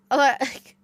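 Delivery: usual speaking voice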